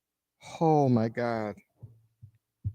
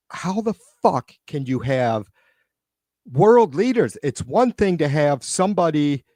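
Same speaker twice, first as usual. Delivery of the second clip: exasperated rant; 3 semitones higher than usual. Real, not acted. Streamer ranting about world leaders.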